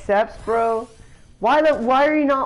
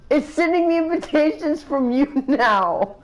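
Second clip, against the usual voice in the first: laughing; 5 semitones higher than usual. Real, not acted. Laughing at invitations.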